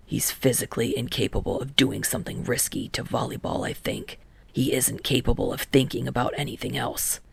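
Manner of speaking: lightly voiced Kageyama musing about Hinata. Kageyama's voice in dialogue.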